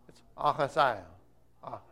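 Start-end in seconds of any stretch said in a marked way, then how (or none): none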